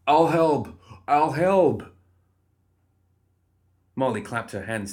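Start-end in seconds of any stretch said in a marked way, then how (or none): 0.0-2.0 loud, high, frightened surrender; panicked squeak. A narrator's reading. Guard cornered by growling Archie, squeaking in panic. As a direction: cry out in panic, pitched up. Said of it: "The guard squeaked".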